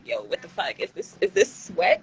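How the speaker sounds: whispered, alarmed at sweating; panicked whisper. Retold or imitated. Streamer before going live, panicking in a whisper. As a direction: hiss it out in nervous panic. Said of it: "I'd be like".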